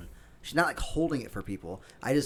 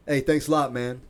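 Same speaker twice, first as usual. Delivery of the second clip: raised, sarcastic call-out; mildly acted annoyance, calling after someone; pissed-off stranger; 3 semitones higher, 6 dB louder than usual. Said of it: "He was, like, all pissed".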